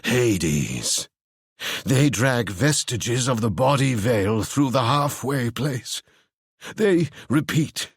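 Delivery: slow, eerie voice; eerie Ewan. Acted. Ewan describing the dead to Seb, slow and eerie. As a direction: intone it darkly.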